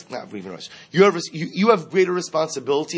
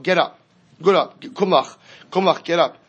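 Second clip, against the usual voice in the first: louder, higher stern order; stern command; 4 semitones higher, 5 dB louder than usual. Retold or imitated. God orders Yoshua to rise, stern loud command. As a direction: bark it like God rousing Yoshua. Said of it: "says back to Yoshua".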